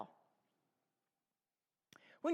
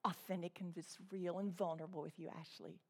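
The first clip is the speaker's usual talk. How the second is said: much softer, fast, lightly mocking gush; mocking soft confession; 6 semitones lower, 14 dB quieter, faster than usual. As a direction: toss it off as a parody of oversharing. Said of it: "You never hear Paul ever, ever say".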